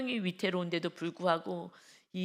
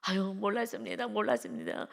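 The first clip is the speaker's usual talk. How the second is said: pleading. Retold or imitated. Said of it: "막 사정하는 거예요".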